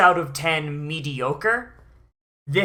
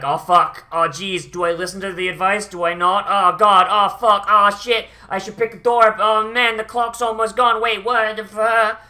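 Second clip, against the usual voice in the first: mock panic; 3 semitones higher, 5 dB louder than usual. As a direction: ham up a frantic countdown freak-out, rising as the clock runs out. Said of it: "you just had Kun going like".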